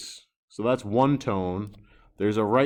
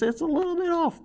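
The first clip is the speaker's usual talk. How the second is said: embarrassed admission; faster than usual. Real, not acted. Admits line missed intersection.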